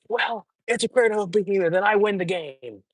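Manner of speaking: mocking the guy who insists he still wins; smug mock voice. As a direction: brush it off in a silly smug voice. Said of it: "he's like".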